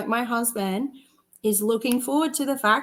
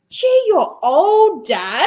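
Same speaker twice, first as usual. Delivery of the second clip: put-on child's teasing voice; 7 semitones higher, 7 dB louder, much slower than usual. Son teasing his dad.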